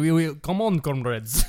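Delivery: hearty Russian comrade voice; rally the comrades in a Russian accent. Pretend. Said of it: "you're so much better at accents".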